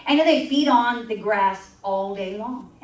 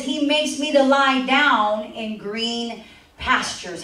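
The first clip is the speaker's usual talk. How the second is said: scripture reading; slower than usual. Acted. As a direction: read it out slowly and reverently.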